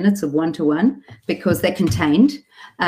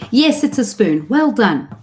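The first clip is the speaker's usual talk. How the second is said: put-on higher, sing-song praise for a toddler; praising a child; 5 semitones higher, slower than usual. Parent after the child says spoon, sing-song praise. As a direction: congratulate a small child, pitch lifted.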